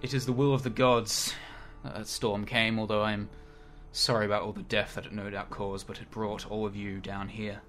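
slow, measured pronouncement to assembled warriors; lightly voiced solemn oracle. Telling gathered warriors they were brought here, solemn and slow.

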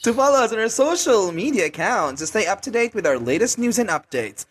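scripted social media plug; measured announcer delivery, each handle set out; promo read. Acted. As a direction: read it like a podcast ad.

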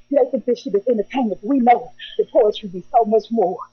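winded at the end of a poem; panting a little as you finish; out of breath. Real, not acted. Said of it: "Excuse my breath".

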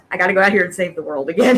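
quick, grumbled weariness, acted out; mildly exasperated character quote. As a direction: play a fed-up older hero, hurried. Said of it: "he's like the exasperated older guy".

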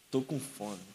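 low, very soft acted plea; subdued plea. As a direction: confess hunger quietly, voice dropped. Homem necessitado pede comida ao pastor. (súplica encenada, baixa e contida)

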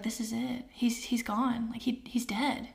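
breathless whisper of panic, voice gone; terrified whisper. Retold or imitated. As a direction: whisper it as if you can't believe he's dead. Retelling her terror over Josh.

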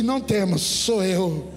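low, firm retold assurance; Jesus's assurance. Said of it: "Jesus disse assim".

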